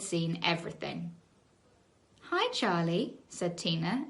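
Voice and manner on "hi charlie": sweet. Acted. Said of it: "ever so sweetly".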